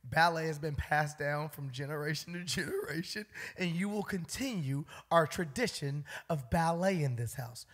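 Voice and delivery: hint of a dad laying down family tradition; stern posh dad. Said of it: "His dad is just like".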